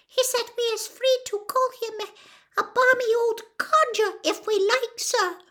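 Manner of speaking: high elf stage whisper, still voiced. Dobby beckons Harry closer with a secret, squeaky stage whisper. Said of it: "Dobby whispered".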